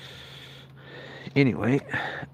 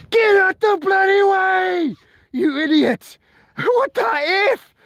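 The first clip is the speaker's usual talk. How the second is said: much higher, slow furious yell; yelling at him; slower than usual. Retold or imitated. Up a tree yelling at the neighbour below, furious yell. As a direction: scream a warning down from the tree.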